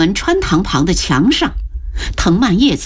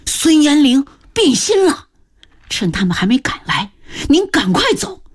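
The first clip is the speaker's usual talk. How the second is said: strained. Acted. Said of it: "吃力地说道".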